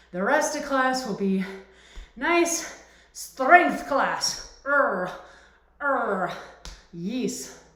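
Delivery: a light, slowed fake Russian accent; hint of a put-on Russian accent. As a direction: drag out the class plan in a hammy Russian accent. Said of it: "fake Russian accent".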